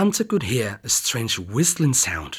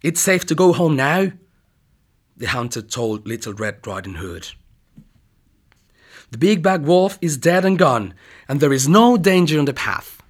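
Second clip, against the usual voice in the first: reassuring; 2 semitones higher, 4 dB louder than usual. Acted. Hunter reassures the girl.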